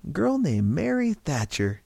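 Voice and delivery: cheerful. A narrator's reading. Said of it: "Silva said cheerfully".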